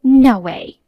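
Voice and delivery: loud, stunned disbelief; shocked cry. Acted. Sister shouts in shock at the fiancé reveal. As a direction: blurt it out in shock.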